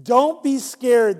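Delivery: slow, soothing reassurance; calm them slowly like a kind angel; gentle angel. Acted.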